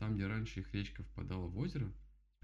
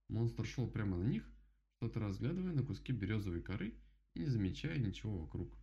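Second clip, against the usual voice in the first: ordinary delivery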